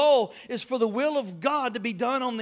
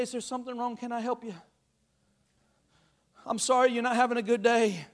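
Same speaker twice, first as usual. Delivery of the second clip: sweet and gentle. Shown as a demonstration. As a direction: answer rudeness with sweetness. Kind answer to rude people.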